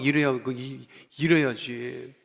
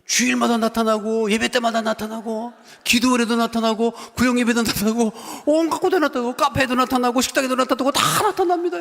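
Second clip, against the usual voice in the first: rising higher and louder with each line; building preaching; 8 semitones higher, 6 dB louder than usual. Real, not acted. Preacher to congregation, climbing to a loud climax. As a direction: pile it on until the peak.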